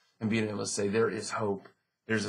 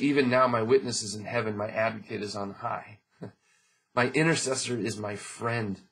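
scripture reading. Acted. Pastor reading Job's hope to the church, earnest. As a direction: let each phrase of the verse land. Reads verse.

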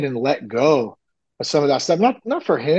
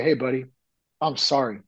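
gentle apology; 2 semitones lower, 5 dB quieter than usual. Retold or imitated. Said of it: "to go out and say".

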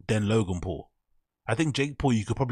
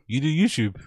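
mock voice; 4 semitones higher than usual. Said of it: "mocking line from podcast".

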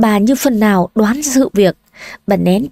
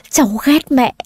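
put-on sobbing girl; 4 semitones higher than usual. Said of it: "nấc lên từng tiếng".

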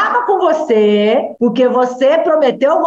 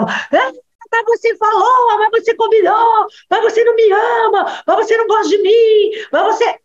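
put-on higher whining kid, piling up complaints; higher, insistent childish protest; arguing child; 9 semitones higher than usual. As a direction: plead like a little lawyer guilt-tripping mom. Child arguing back at mother.

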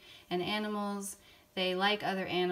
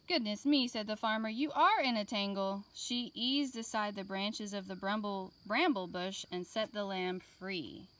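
put-on lively read-aloud for young children; gentle classroom story voice; storybook reading. A narrator's reading. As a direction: read it like a picture book to kids. Reading picture book to class.

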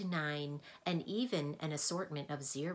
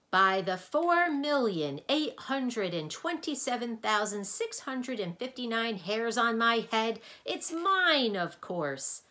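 booming slow bellow, much louder; 6 semitones higher, 8 dB louder than usual. A narrator's reading. Mathemagician bellows at visitors across the cavern, booming. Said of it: "bellowed a voice".

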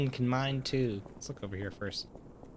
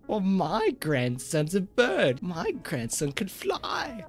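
put-on old lady voice; 5 semitones higher, slower than usual. Grandma voices bragging.

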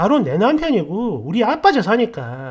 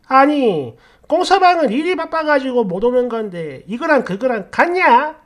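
indignant mother; 4 semitones higher than usual. Retold or imitated. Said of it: "본인이 더 황당하다는 듯".

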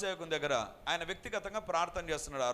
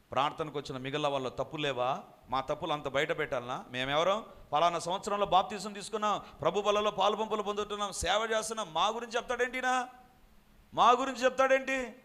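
rising, louder indignant protest that builds to a yell; indignant shouting; 4 semitones higher, 3 dB louder than usual. Retold or imitated. Brother yelling at the pastor who exposed the family, indignant and loud. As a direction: hurl the accusations back, getting louder. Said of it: "ఏవేవో గట్టి గట్టిగా అరుస్తున్నాడు".

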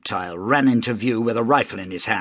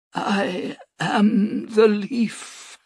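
whispered; 11 semitones higher, much slower than usual. A narrator's reading. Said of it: "whispered the priest".

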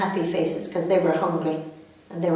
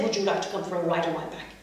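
elephant voice; 4 semitones lower, 4 dB quieter, faster than usual. Acted. Elephant speaks.

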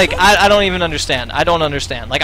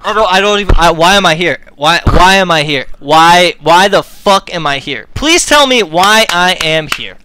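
exasperated rant; 4 dB louder than usual. Real, not acted. Ranting streamer in disbelief.

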